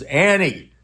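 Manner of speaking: hammed-up distress, falling at the end; mock alarm. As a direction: imitate a frantic friend crying a name. Friend cries girlfriend's name in story.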